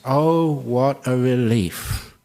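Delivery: slow, drawn-out relief; relieved. Acted. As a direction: let the relief out slowly. Voicing relief at resting at last.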